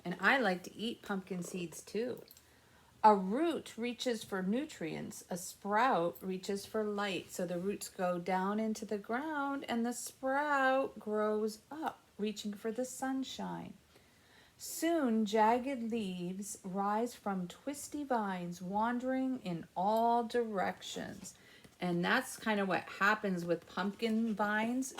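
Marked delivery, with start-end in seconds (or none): 3.0-7.3 gentle storybook reading; reading to children. Acted. Reads picture book to kids. 14.6-21.3 gentle storybook reading; reading to children. Acted. Reads picture book to kids.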